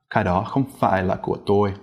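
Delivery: của said low and sharp, no rise. Shown as a demonstration. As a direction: run the sentence quickly with của clipped low. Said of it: "It's just a low, sharp sort of tone".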